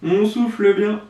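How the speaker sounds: loud breathy exhale over words; blowing out hard. Real, not acted. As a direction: blow out hard while speaking. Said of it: "Je sais pas si vous m'entendez souffler".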